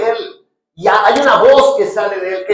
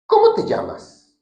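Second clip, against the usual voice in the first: much higher, searching question; 14 semitones higher than usual. Acted. Jesus asking the demon its name, high. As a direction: ask it up high. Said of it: "le dijo Jesús".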